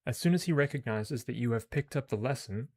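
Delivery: measured read-aloud of game text; story narration. Acted.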